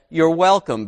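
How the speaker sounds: dry sarcastic thanks. Retold or imitated. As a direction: say it with a sarcastic edge. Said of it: "I sarcastically said".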